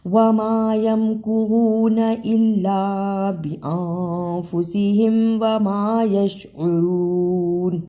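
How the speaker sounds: slow, measured Quranic chant; Quran recitation. Acted. Teacher recites the verse before the lesson, slow chant. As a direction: recite each verse slowly and reverently.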